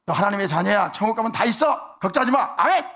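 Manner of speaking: loud comfort. Shown as a demonstration. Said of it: "그거 믿음이라고 그러냐?".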